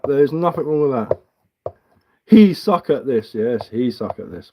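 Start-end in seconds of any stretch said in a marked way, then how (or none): 2.3-3.3 slow, a touch louder read of his words; slow sneering quote; mocking read-out. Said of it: "read-back of chat line". 3.3-4.5 slow, softer sarcastic reply; slow, softer sarcastic echo; sarcastic agreement. Retold or imitated.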